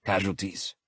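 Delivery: tense, strained voice; tight voice. Acted. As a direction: tight with tension. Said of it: "my voice tight".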